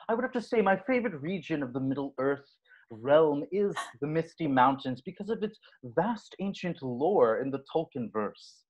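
lightly voiced Tolkien nerd; earnest fantasy nerd lecture. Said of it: "that's my nerd voice".

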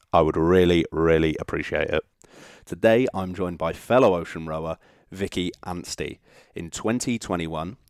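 measured scripted host introduction; podcast intro read. Shown as a demonstration. Host introducing today's guest to listeners, scripted intro read.

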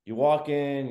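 normal talking voice

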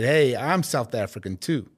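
put-on out-of-practice American accent, slow; half-convincing put-on American accent. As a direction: attempt a rusty American accent, drawn out. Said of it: "Is that your American accent?".

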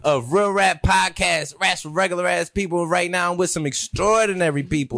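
showman host announcement; ringmaster. Acted.

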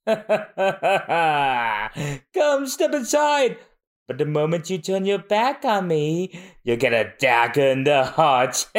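sly luring villain. Acted.

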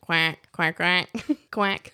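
half-hearted duck quacking. Pretend. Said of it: "as good as you can do of a duck".

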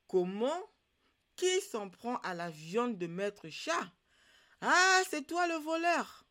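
fetish catching the thief, rising to a loud, high shout; the guard startles the thief, ending in a loud, high cry; fetish's voice. A narrator's reading. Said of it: "En entendant cette voix".

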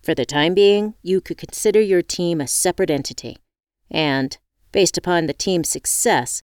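brisk, businesslike interviewer voice; lightly voiced corporate boss; formal interviewer. Interviewer answers.

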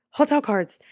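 high, loud eureka; light-bulb moment, said out loud; retold realization. Remembering the hotel cards, sudden excited realization. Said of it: "I was like".

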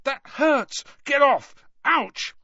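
loud, high "get off me" protest; pained protest. A narrator's reading. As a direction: yelp at being poked. Harry protests being painfully poked.

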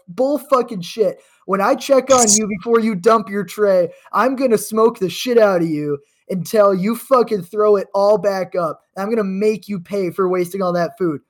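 lightly played threatening drill sergeant; a hint of a sergeant's threat. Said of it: "He's like".

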